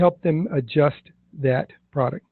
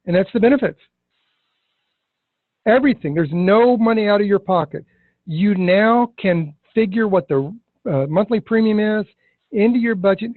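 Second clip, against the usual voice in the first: excited pitch; 4 semitones higher than usual. Shown as a demonstration. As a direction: build enthusiasm as you list the wins. Pitching benefits to client excitedly.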